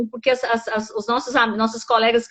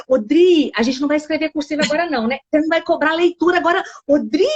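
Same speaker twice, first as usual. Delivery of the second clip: a hint of kids pleading, quick; lightly voiced kids begging the teacher; pleading children. Teacher imitating her pupils pleading about schoolwork. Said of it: "eles já chegaram assim".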